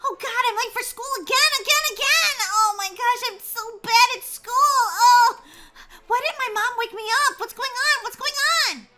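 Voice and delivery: high, loud frantic yelling; panicked outburst. Acted. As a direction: shriek in panic at oversleeping. Wakes late for school, panics.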